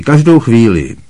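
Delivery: Harry. A narrator's reading. Harry answers.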